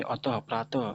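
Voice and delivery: अतः, प्रातः ending in an audible breath of h; visarga as h. Shown as a demonstration. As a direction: sound the final ः of अतः and प्रातः like ह. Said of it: "इसका उच्चारण ह".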